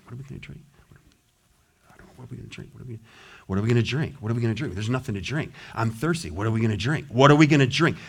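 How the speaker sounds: hammed-up grumbling mutter; mock grumbling. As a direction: nag over and over.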